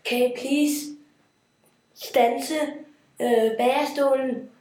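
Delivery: urgent call. Acted. Overheated prince orders a stop.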